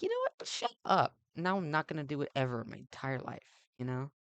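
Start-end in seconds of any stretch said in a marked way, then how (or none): 0.0-1.2 a sudden high-pitched mock snap; defiant retort. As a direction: fire it back like a sulky teen. Snapping back at nagging parents.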